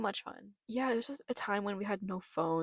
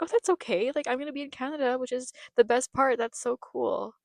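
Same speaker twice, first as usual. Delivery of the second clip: retold childish excitement; 4 semitones higher than usual. Child brushing off worry, thrilled about Canada.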